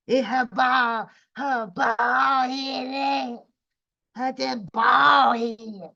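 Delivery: slow, stretched-out jeering; mocking. Real, not acted. Streamer ridiculing a woman's bald head, mocking. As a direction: drag out each word of the taunt.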